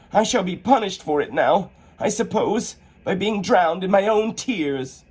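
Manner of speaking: put-on high, wondering girl's voice; young Alice. Alice shrinking, high and wondering. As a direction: marvel at the strange feeling.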